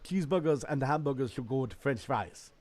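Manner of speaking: imitated Bahamian accent. Echoing the caped man's response, imitated Bahamian accent. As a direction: copy a Bahamian accent lightly. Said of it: "That's how he talked".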